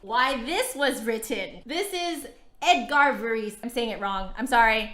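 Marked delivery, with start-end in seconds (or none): 2.6-3.6 "Varese" said the plain American way, not French; American-accented composer name, said casually. Real, not acted. Flutist introducing the composer's name, in an American accent. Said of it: "I'm saying it with an American accent".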